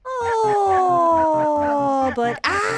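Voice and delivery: high, loud alarmed cry; startled shout. Real, not acted. Player spotting the big dog, startled shout. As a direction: jump at the sight.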